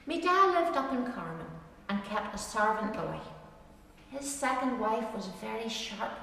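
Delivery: measured dialect poem reading, rhythmic; poem recitation. Acted. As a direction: recite it like a fireside rhyme. Reads a dialect poem aloud.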